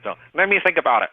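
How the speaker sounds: high, fast whining prospect; whiny voice. Pretend. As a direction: whine the stalling line. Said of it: "the whiny voice".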